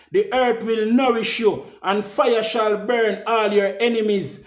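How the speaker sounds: intoned like a decree being read; solemn proclamation. Acted. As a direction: ceremonial verdict reading. Second take of proclamation.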